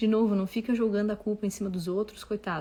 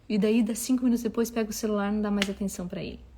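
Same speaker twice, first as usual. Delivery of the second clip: ordinary delivery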